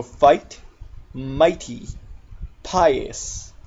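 "fight, mighty, pious" with an eye vowel; long I examples. Shown as a demonstration. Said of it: "it makes the I sound".

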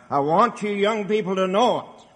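emphatic preaching, pitch climbing; real insistence, voice lifting; hard, emphatic. Real, not acted. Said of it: "if I sound hard this morning, I'm only trying to be emphatic".

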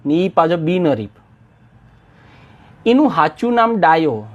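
reading the poem with a light Mehsani village lilt; a gentle Mehsani-accented poem reading, lively at the dialogue; Mehsani dialect reading. Acted. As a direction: voice the old village sarpanch in a mild Mehsani accent. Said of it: "કાવ્ય વાંચતા એ મહેસાણી લઢણપૂડી ન પકડી શકું, પણ હું પ્રયાસ કરીશ".

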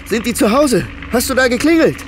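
losing control with fear; desperate shouting at the neighbour about his sister; rising panic. Acted.

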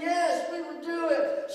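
excited classroom yes; mock kids shouting yes. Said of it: "They all screamed".

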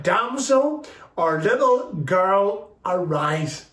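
measured command, slow and stepping down in pitch; a touch of solemn power, each phrase set apart; authoritative. Retold or imitated. Jesus raising the dead girl, measured authoritative command. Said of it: "with the authority, with the power of his voice".

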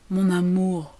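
ordinary delivery

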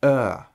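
put-on Е soft and drawn out like in girl; soft long er. Shown as a demonstration. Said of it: "Він просто більш м'який". (м'який довгий е)

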